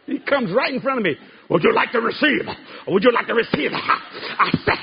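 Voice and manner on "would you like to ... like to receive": lightly mimicked preacher's invitation; imitated preacher. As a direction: put the question like the odd preacher, with a touch of mockery. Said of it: "he talked like this".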